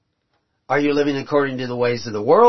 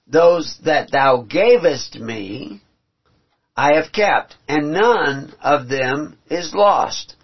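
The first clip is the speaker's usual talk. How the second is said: slow solemn reading of scripture; solemn scripture read aloud; 3 dB louder, slower than usual. Acted. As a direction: read it slow and weighty like holy writ. Reads scripture slowly, solemn.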